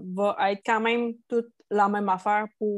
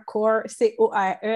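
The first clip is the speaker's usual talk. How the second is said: core said the English way with a French accent; English word core, thick French accent. Shown as a demonstration. Host spelling out core in French-accented English. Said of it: "avec mon bel accent".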